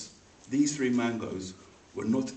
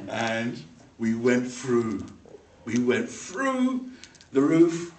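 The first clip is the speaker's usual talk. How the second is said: slow dramatic; 3 dB louder, much slower than usual. Real, not acted. Dramatic fall through roof.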